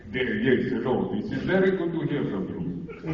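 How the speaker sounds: a lightly put-on, overly formal phone greeting; mock-polite silly voice picking up the family phone. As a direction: answer the phone like a stuffy gentleman, only slightly altered. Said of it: "the silliest voice when picking up the phone".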